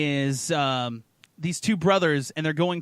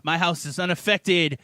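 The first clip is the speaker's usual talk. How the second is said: smug gloat; slower than usual. Pretend. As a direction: lord it over the villagers. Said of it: "just like".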